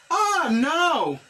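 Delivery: mock dismay for the class; acted dismay. Shown as a demonstration. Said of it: "Èske ou te pale a Sarah?". (sezisman jwe)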